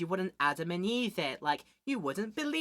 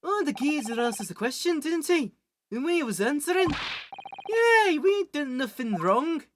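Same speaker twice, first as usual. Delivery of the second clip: higher, louder Cockney whine of innocence; Cockney brother squawking yay, we done nothing wrong; indignant Cockney protest; 7 semitones higher, 4 dB louder than usual. Acted.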